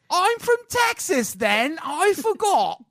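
high, slow hammed-up Texas accent; mock Texas drawl. Riffing on Texans to a cohost, hammed-up Texas drawl. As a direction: ham up a dumb Texan, slow and loud.

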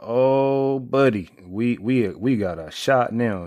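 high, thrilled oh buddy, then slowing down; excited fan. Retold or imitated. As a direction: burst out in hopeful excitement, settling by the end. Reliving excitement over long pass.

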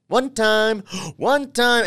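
high, excited repeating. Real, not acted. Excited repetition.

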